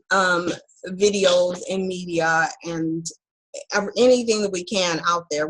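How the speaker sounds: numb mouth. Real, not acted. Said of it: "half of my mouth is numb".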